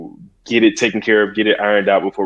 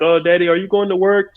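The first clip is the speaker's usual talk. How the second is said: put-on higher, childlike asking voice; little daughter voice; 8 semitones higher than usual. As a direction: lightly voice a small girl asking daddy. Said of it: "sometimes she'd be like".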